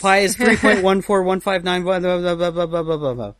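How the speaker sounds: hammering out facts. Retold or imitated. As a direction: reel it off like a droning drill. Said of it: "like, hammering out".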